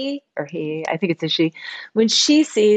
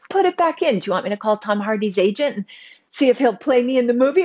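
fast, higher, mock eager; imitating excited ex-husband; 4 semitones higher, faster than usual. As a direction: rattle it off, lightly playing the thrilled ex. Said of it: "like, all excited".

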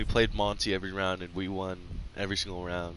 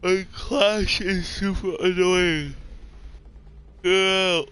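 voice crack; 9 semitones higher, 3 dB louder, slower than usual. Real, not acted. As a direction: voice cracking up high on Clash. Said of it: "I had a voice crack when I said Clash".

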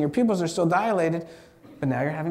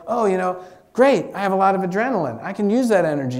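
louder, brighter self-talk about the adrenaline; upbeat self-talk; 4 semitones higher, 5 dB louder than usual. Shown as a demonstration. Speaker coaching themselves to use adrenaline, upbeat and loud. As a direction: pump yourself up about the energy. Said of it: "You say".

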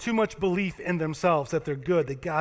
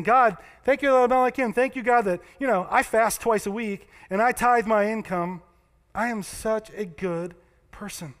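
smug Pharisee; 4 semitones higher, 4 dB louder than usual. Acted. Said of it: "He's saying".

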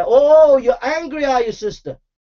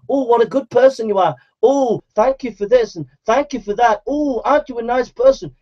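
mock flattery. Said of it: "Tickle your little ears and say".

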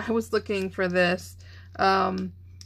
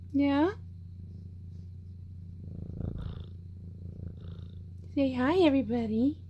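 pet talk; 5 semitones higher, 7 dB quieter than usual. Real, not acted. Asking the cat to greet.

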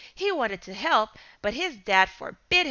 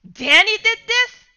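sudden loud, high disbelief; shocked outburst; 10 semitones higher, 10 dB louder than usual. Acted. Father interrupting son, loud angry disbelief.

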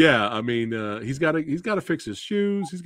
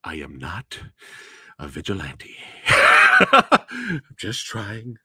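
D-Fens quote; 2 semitones lower, 4 dB louder, much slower than usual. Retold or imitated. Quoting the film's hero.

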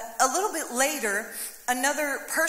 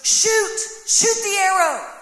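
sudden loud high command, fired off fast; urgent shout; 7 semitones higher, 7 dB louder, slower than usual. Retold or imitated. Dying prophet urging the king to shoot, urgent shout. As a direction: shout it like time is running out. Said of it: "Like with urgency".

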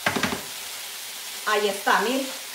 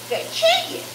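a much higher, delighted squeal; squealed cry; 14 semitones higher, 3 dB quieter, slower than usual. Real, not acted. Cheering the sizzling pan. (chillido agudo de alegría)

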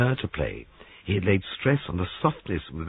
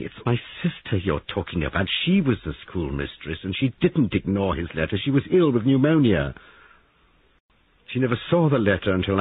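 put-on distressed young woman; 3 semitones higher, 4 dB louder than usual. Woman explaining her sister's illness, upset and pleading. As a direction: defend her sister close to tears.

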